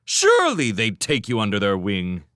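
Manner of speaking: high, loud, fast outraged rant; indignant rant. A narrator's reading. Master ranting at his orphan servants, outraged. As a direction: vent fury at the world.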